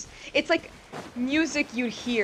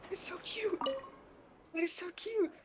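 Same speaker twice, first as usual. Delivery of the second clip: gushing over cute; 9 semitones higher, 10 dB quieter than usual. Real, not acted.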